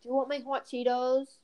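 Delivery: lightly attempted British accent; amateur British chav impression; mock British accent. Girls offering snacks, mock British accent. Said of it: "I'm giving them an accent".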